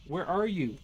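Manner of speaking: hammed-up barbarian shout at the ghost. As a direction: call out like a brutish barbarian. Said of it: "Do I need to use the barbarian voice?".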